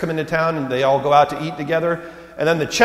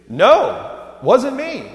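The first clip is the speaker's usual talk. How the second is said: peter denying; 10 semitones higher, much slower than usual. Retold or imitated. Peter denying he knew Jesus.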